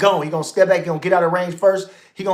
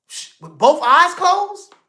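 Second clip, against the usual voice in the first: incredulous; 6 semitones higher, slower than usual. Real, not acted. Incredulous about knockout.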